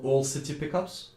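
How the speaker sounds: All City said with a French accent, Oil sounding like All; French-accented All City Pickups. Real, not acted. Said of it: "Sorry for my French accent".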